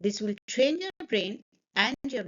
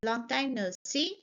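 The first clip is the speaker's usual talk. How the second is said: softer greeting, lifting on "see"; rising tune finishing on "see"; excited rising end; 5 dB quieter than usual. Shown as a demonstration. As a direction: send "see" upward to show excitement. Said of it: "my voice is rising".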